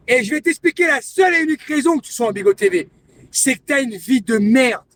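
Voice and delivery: loud, hammering accusation; angry rant. Real, not acted. Streamer berating a woman who lied, angry. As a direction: tear into her, word by word.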